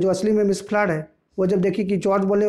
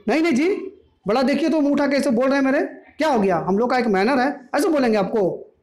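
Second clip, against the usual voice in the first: scolding; 5 semitones higher than usual. Acted. Wife scolds George over manners.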